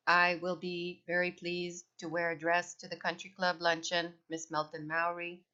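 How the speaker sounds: flat, even robot zombie drone. Acted. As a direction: say it like a programmed zombie. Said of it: "in my best robot zombie voice".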